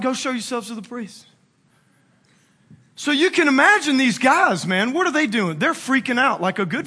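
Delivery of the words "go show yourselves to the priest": soft throwaway delivery; offhand. Acted. Jesus to the lepers without stopping, lightly offhand. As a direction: drop the volume and toss it off. Jesus tosses reply off while passing.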